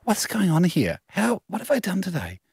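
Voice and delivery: mock a rattled canteen worker; flustered. Canteen worker calling out over missing food, flustered. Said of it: "She's a bit flustered".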